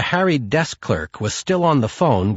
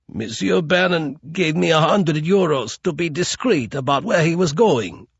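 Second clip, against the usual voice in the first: higher, trembling plea of a man in pain; whimpering; 5 semitones higher than usual. Acted. Broken-fingered concierge whimpers answer to Marta, higher and frightened.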